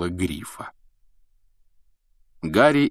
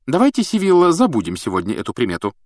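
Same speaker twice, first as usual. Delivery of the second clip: impatient; 4 semitones higher, 3 dB louder, faster than usual. Acted. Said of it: "нетерпеливо ответила МакГонагал".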